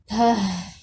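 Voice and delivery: weary dismissive snort; tired snort. A narrator's reading. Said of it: "Ove snorts tiredly".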